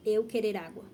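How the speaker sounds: learner's wrong phrasing repeated; broken Portuguese. Shown as a demonstration. Teacher repeating the learner's broken request. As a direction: say it flatly like a struggling student. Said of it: "mas não tá correto".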